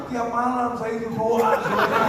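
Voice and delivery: mock widow begging for marriage; pleading widow. Widow Zubaidah pleading with Sulaiman.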